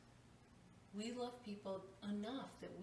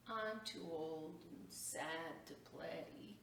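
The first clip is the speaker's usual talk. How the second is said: weary sadness; slower than usual. Acted. Weary boy refuses tree.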